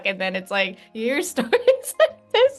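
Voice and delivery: choked up and near tears; teary-eyed. Real, not acted. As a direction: voice wobbling, fighting back tears. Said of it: "I get teary-eyed".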